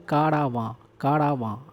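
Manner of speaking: कारावां with a long aa after the r; तीन हिस्सों वाला उच्चारण. Shown as a demonstration. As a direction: stretch कारावां into kaa-raa-vaan. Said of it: "आप इसको कारवां मत बोलिए, कारावां कहिए". (कारावां, 'रा' को लंबा खींचकर)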